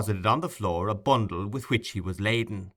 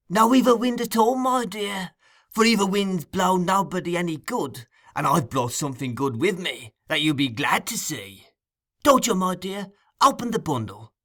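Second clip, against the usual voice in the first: put-on much higher, oily old man's voice; wheedling Fagin; 6 semitones higher than usual. A narrator's reading. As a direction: flatter him in a high sly whine.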